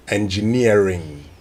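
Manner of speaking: "engineering" stretched out, falling at the end; correct pronunciation. Shown as a demonstration. Presenter summing up the lesson for colleagues, careful "engineering". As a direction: give "engineering" slowly as the finished example. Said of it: "that's how you say it right".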